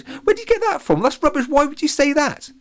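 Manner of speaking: very high, loud embarrassed denial; flustered squeak. A narrator's reading. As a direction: squeak out the denial, cheeks burning. Alex flustered, denying crush.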